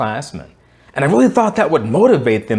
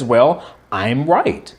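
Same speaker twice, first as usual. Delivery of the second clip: slow, smug insistence; self-righteous; much slower than usual. Retold or imitated. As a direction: dig in with a touch of smug certainty. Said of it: "a little self-righteous with his reply".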